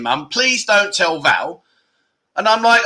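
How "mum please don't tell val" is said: slow, drawn-out plea; imitating Jimmy pleading not to be told on; mock begging. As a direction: whine it like a caught schoolboy. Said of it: "now he's begging".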